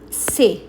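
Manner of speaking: say, ending on the é sound; French é sound. Shown as a demonstration. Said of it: "it sounds like".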